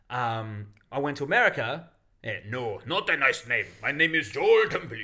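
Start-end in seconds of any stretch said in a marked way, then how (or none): 2.5-5.0 mocking impression of a friend; Joel. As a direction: put on a voice to mimic your co-host. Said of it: "that was my impression of Joel".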